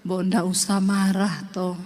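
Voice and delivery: calm him down gently, Solo style. Retold or imitated. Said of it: "Dia datang". (suami orang Solo yang bicara lembut)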